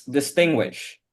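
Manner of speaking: "distinguish" as a careful model, falling at the end; model pronunciation. Shown as a demonstration. Teacher showing how to read the word, carefully pronounced "distinguish". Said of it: "You read this word as".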